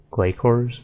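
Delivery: "Glacors" with a hard K; correct way. Shown as a demonstration. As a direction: say "Glacors" as GLAY-kors. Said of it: "more of a harder sound".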